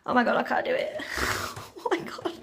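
breathy laugh under the breath; nervous laughing whisper. Real, not acted. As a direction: giggle it out in a whisper. Nervous laugh before ice bath.

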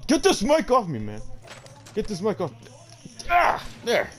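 worked-up mock movie-star yell, high and loud; Sylvester Stallone. Fed-up star wants his mic off, hammed-up Stallone impression. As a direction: ham up an exasperated celebrity ranting. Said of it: "I am Academy Award winner Sylvester Stallone".

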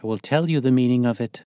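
wife finally confessing with defiance; proud woman's cry. A narrator's reading. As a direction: answer him proudly, head up. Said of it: "cried the lady".

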